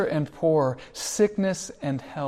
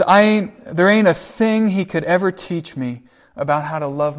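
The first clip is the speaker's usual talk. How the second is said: retold shout; 2 semitones higher, 4 dB louder than usual. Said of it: "then Will begins to shout".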